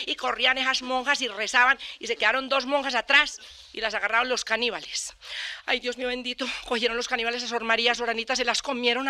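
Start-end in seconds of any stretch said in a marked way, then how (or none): 5.7-6.5 breathless horrified whisper of "Ay, Dios mío bendito"; mock nun whispering in fright. Nuns mourning their sisters.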